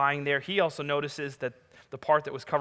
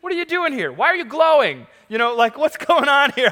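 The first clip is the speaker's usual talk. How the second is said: much higher, louder, rapid disbelief; imagined baffled reaction; 11 semitones higher, 10 dB louder than usual. Pretend. Preacher imagining meeting glowing angels, baffled and loud. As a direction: gush with wide-eyed confusion. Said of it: "I would have been like".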